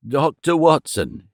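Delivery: slow, breathless stammer; out of breath, stammering. Acted. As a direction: gasp the name out haltingly. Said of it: "he stammered".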